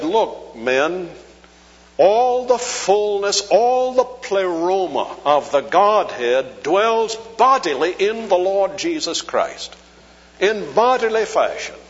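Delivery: a hint of the professor addressing his students; quoting Doctor Chafer. Preacher retells his old seminary teacher addressing the students, with a hint of the teacher's voice. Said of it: "And he said".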